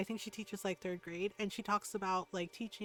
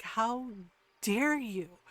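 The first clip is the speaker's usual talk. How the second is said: outraged rebuke, pausing after the first word; appalled and emphatic; indignant; 5 dB louder, much slower than usual. Retold or imitated. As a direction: hold back, then hit it indignantly. Repeats indignant rebuke to commenters.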